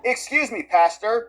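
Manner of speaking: imitating someone shouting at a pastor; mock shout. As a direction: call out to interrupt, half in earnest. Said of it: "interrupted the pastor's sermon and shouted".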